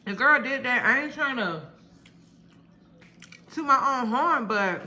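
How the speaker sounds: proud excitement. Real, not acted. Proud of her cooking.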